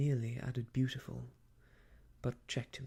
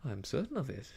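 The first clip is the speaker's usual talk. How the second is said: mildly emphatic assurance; faster than usual. A narrator's reading. Young man assuring her she'll make friends, emphatic. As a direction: stress it with conviction. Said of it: "he said emphatically".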